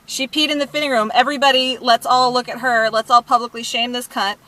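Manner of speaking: re-enacting a public shaming; retold screaming. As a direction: call out to the whole store, loud and outraged. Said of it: "I'm, like, screaming too".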